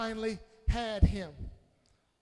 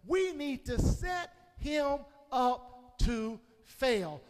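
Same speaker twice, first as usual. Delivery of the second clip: emphatic plotting; 3 semitones higher, much slower than usual. Acted. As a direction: drive each word home slowly. Leaders plotting, repeated louder.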